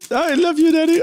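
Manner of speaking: put-on high, loud, squeaky silly kid voice; mock doting child. Teasing about kissing dad, squeaky mock child.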